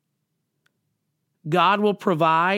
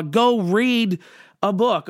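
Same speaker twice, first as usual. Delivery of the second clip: God's blunt reply; 3 semitones higher, slower than usual. Pretend. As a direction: toss it back like an unimpressed God.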